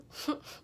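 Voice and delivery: quiet breathy chuckle; short laugh. Real, not acted. Mother recalling pushing the baby out, short breathy laugh. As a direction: laugh it off softly.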